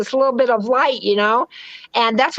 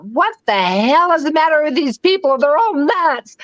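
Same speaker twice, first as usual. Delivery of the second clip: higher-pitched, emphatic retold disbelief; mock appalled; 4 semitones higher than usual. Newcomer to Southern California retelling first reaction, mock appalled. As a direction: act out culture shock, pitch lifted.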